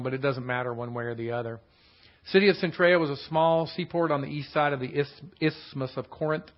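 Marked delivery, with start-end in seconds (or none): 2.3-6.4 speaking around a retainer; slightly lisped with retainer in; wearing a retainer. Real, not acted. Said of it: "It's hard for me to say with my retainer in".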